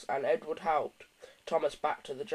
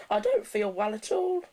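higher, put-on poorly whine; fake sick voice; 6 semitones higher, 4 dB louder than usual. A narrator's reading. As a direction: pretend to be ill. James pretends illness.

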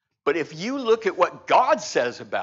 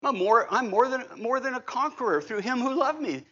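bold declaration; 8 semitones higher than usual. Shown as a demonstration. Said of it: "just talk to yourself and say".

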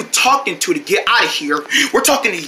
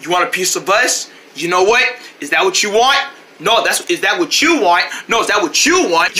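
threatening; 4 semitones lower than usual. Acted. Squaring up for a fight.

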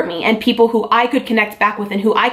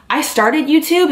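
holding back tears; 6 semitones higher, slower than usual. Real, not acted. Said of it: "it's gonna make me cry".

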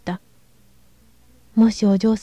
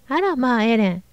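delighted cry. Acted. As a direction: call out with glee. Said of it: "愉快そうに叫んで".

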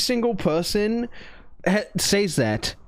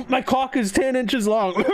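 laughing boast; 4 semitones higher than usual. Acted. Joking boast to AI.

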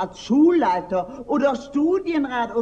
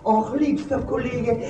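gushing sweetness; 3 semitones higher than usual. Acted. Gushing greeting to colleague.

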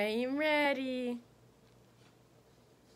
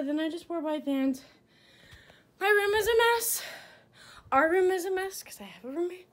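out of breath; 5 semitones higher than usual. Real, not acted. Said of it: "for this next out of breath clip".

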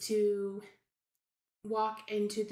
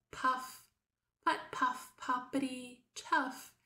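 soothing tractor sound; 3 semitones higher than usual. Shown as a demonstration. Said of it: "very soothing and calming".

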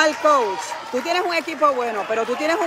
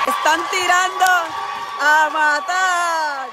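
tag; 3 semitones higher, much slower than usual. Real, not acted. Dramatic commentary on opponents.

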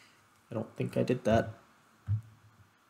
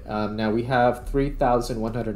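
louder, addressing the AI clearly; loud call to assistant; 5 dB louder than usual. Real, not acted. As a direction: speak up so the assistant hears.

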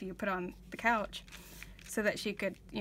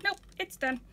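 lightly imitated little girl, pitched up high; high-pitched kid saying no; child's refusal; 9 semitones higher than usual. Retells five-year-old niece's flat refusal.

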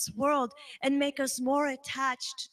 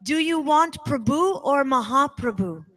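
the question repeated louder, with more force; louder insistent repeat; 6 dB louder than usual. Retold or imitated. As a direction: press the question harder the second time. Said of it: "he said again louder".

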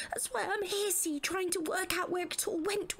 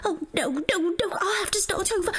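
distressed cry; 6 dB louder than usual. Acted. Distressed at her mistake.

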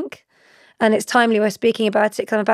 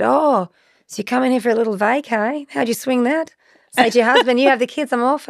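lightly attempted Australian accent, lilting higher; terrible Australian accent; 4 semitones higher than usual. Australian radio DJ quizzing a touring mum, badly imitated Australian accent. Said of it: "Apologies for a terrible Australian accent".

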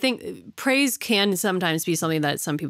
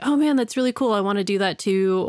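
lightly acted eager friend, pitched up at first; mock enthusiasm; 2 semitones higher than usual. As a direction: play an impressed buddy, lightly. Voices friends' enthusiastic reaction.

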